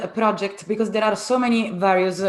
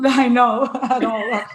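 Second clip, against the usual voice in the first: laughing through the words; helpless amused laugh as you admit it; 4 semitones higher, 6 dB louder, slower than usual. Real, not acted. Guest teased about an accent, laughing.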